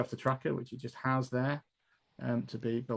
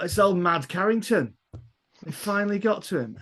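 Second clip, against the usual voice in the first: high-pitched, put-on copper's voice; pitched-up bobby chatting to his mate; constable gossiping; 7 semitones higher, 4 dB louder than usual. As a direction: play a constable remarking on a find. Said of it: "shot of the constables going there".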